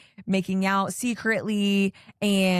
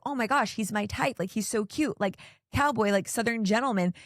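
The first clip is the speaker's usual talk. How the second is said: mock giddy gushing; 3 semitones higher than usual. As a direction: gush like a girl swooning over a cowboy. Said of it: "being so, like, giddy about him".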